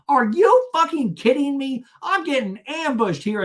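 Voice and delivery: high, loud mock disbelief; hammed-up outraged protest; Shannon. Shannon feeling ambushed, mock outrage. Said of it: "And Shannon and I are talking".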